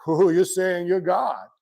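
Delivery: hammed-up scandalized believer; mock religious outrage. Teacher imitates religious people crying blasphemy, exaggerated scandalized gasp. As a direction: draw out the mock shock. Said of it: "'cause the religious people go".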